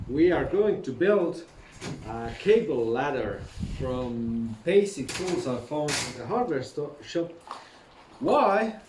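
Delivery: muffled behind a mask; talking through a face mask; through fencing mask. Real, not acted. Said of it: "Sorry for holding mask on".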